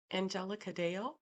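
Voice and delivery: calling loudly through a window. A narrator's reading. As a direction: call her name loud enough to carry through glass. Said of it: "he said loudly to be heard".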